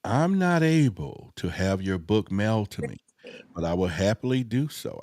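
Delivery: a hint of a secretive noir detective; lightly voiced hardboiled detective reading a message. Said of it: "I'm gonna speak in that, that detective voice".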